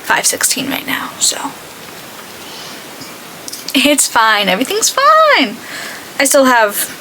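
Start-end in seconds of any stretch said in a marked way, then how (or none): 0.0-1.5 whispered guilty confession; whispering. Real, not acted. Confessing how late it is. 3.7-5.6 sarcastic. Real, not acted. Sarcastic reassurance after running late.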